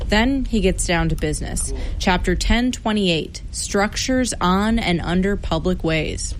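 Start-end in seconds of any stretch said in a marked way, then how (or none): 2.0-6.3 exaggerated Chicago accent, reading out a legal code; put-on classic Chicago accent, deliberate read-aloud. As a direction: read municipal rules in a comic Chicago accent. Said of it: "read Chicago's more than three thousand page municipal code out loud".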